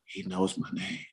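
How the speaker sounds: quiet awestruck hush; stunned murmur. Retold or imitated. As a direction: let it slip out in disbelief. Stunned alone on the bench.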